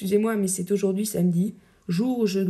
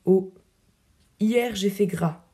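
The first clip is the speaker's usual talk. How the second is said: voix fanfaronne; slower than usual. Acted. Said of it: "D'une voix fanfaronne".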